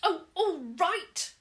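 high, loud, slow grudging sigh; reluctant. Acted. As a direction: give in unwillingly. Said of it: "said reluctantly".

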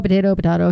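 "potato, potato" as puh-TAY-to, puh-TAH-to; two pronunciations. Shown as a demonstration. Shrugging off the naming choice, "potato, potato" as TAY then TAH. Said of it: "whatever you wanna call it".

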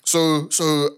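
ordinary talk, nothing marked

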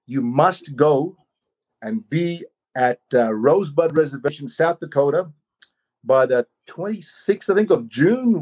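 slow, solemn pronouncement; a hint of a grave oracle, slow; cryptic message. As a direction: deliver it like a mysterious summons.

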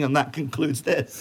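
slow, final deadpan sign-off. Retold or imitated. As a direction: close it off with dry finality. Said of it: "just saying".

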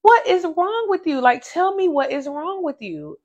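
imitating sister asking what's wrong; sister's voice. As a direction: sister pressing for an answer. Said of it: "she's just like".

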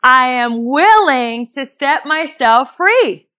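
slow affirmation. Shown as a demonstration. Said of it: "So repeat after me".

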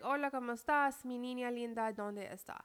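lightly voiced mom greeting in Spanish; sweet Spanish hello with only a hint of the mom. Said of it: "She said it in Spanish".

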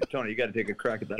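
robot voice, fast and clipped; booming metallic robot. Pretend. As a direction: deliver it like a booming machine. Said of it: "you have to do it with the robot voice".

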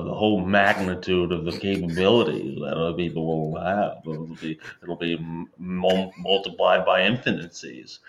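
pompous nerdy science man; nerd voice. Acted. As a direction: rattle off big science words like a nerd. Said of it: "science man saying science things".

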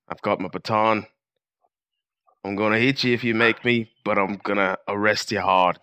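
a loosely put-on English accent, mostly in his own voice; mock English bobby, lightly done; bad English accent. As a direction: hams up a British cop arresting a judge. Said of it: "I'm gonna do my accent".

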